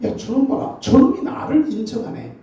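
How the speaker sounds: high, pleased voice of God; a proud, delighted call; voicing God. God looks down and praises the believer, high and pleased.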